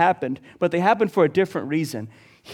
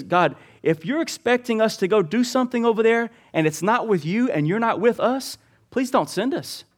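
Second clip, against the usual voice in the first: Moses' raised-pitch, earnest appeal; earnest plea; 4 semitones higher than usual. Acted. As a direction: plead higher, urging God to listen. Acting out Moses pleading with God.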